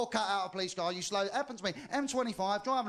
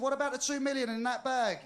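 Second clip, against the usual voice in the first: raised pitch, pressing for an answer; insistent interrogation; 5 semitones higher than usual. Acted. Sheriff pressing the driver who denies the robbery, insistent. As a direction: play a sheriff challenging a denial.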